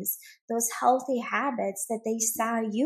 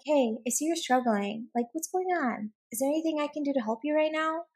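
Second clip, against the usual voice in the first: gentle concern; 4 semitones higher than usual. Acted. Acting out the supportive spouse's reply.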